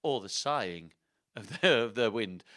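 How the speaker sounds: slow, theatrical put-on accent; Richard the third. Richard's spirit telling how he lost his crown, slow accented storytelling. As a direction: narrate as the dead king, deliberately and dramatically. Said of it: "that's gonna be his voice".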